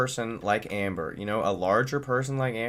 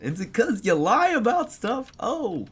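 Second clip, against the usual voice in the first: sarcastic; 12 semitones higher, 3 dB louder than usual. Real, not acted. Sarcastic jab at Amber.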